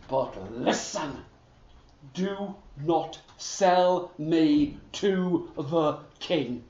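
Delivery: low, soft, confiding horse voice; horse's secret warning. Acted. The talking horse quietly warns Niels, low and hushed. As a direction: lean in and warn him quietly.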